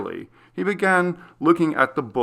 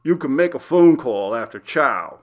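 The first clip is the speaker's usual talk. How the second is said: cold; 2 semitones higher, 7 dB louder than usual. A narrator's reading. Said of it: "the guard replied coldly".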